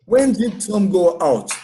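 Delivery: slow English question, word by word; pronunciation model. Shown as a demonstration. Teacher shows students the past simple question, pronunciation model. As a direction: model the question slowly for learners. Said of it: "pra vocês pegarem a pronúncia".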